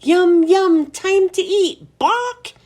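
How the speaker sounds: high, loud parrot screech, slowing on time to eat. A narrator's reading. Parrot flings himself at the cage, screeching high. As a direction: squawk it like a hungry bird.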